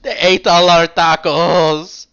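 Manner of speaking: mock grief belted out over the loss; dramatic sobbing wail. Rook grieving to Bishop over the tacos, melodramatic wail. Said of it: "Rook sobs dramatically".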